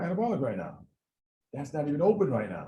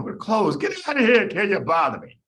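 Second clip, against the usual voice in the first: laughing doorman; 4 semitones higher, 6 dB louder than usual. Acted. Doorman throws him out.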